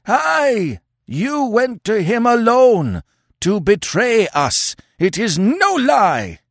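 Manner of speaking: sustained high, loud tirade; hateful, accusing yell. Acted. Warriors accuse Conan of betraying them, yelling with hate. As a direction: pour out the charge at full pitch. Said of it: "A yell of hate and accusation".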